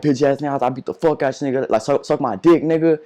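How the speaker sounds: jeering, raising the pitch, retold; retold angry taunt. Retelling taunting a teacher before the fight, angry jeer.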